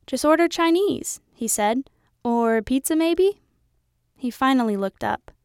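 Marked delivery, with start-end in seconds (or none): 0.1-3.4 higher and louder eager father; dad justifies digging to daughter, higher eager voice; excited dad. A narrator's reading.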